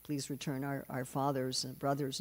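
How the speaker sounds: softly recited, list-like plea; retold prayer. German women praying in church for their men, softly pleading. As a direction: imitate a quiet, repeated petition. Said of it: "going to church praying".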